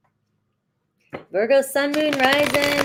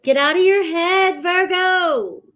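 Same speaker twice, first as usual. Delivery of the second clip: loud and higher, firm push; emphatic command; 7 semitones higher, 4 dB louder than usual. Acted. Reader loudly urges Virgo viewers to stop overthinking. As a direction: shake them out of it. Repeated advice, first take loud.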